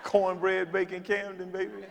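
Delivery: high, slow hammed-up hometown boast; mock brag. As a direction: puff it up like a New York brag. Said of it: "What in the world am I supposed to say?".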